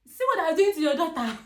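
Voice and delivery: high, loud cry to God; reliving a shouted prayer; shouted plea. Retold or imitated. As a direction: wail it up at the sky. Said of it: "I shouted".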